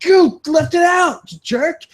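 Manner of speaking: high, mock-furious accusation; hammed-up high blaming whine, half-shouted; playing the hurt victim blaming a bystander; mock angry blame. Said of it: "you look at the person who pulled it out and you're like".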